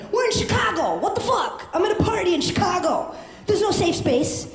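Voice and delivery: fired-up rant to the room; shouting. Real, not acted. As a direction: shout it at the crowd. Yelling at the crowd.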